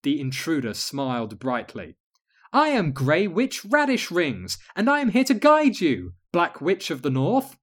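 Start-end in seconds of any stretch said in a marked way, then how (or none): 2.5-7.6 sweet witch voice. Acted. Intruder witch introduces herself.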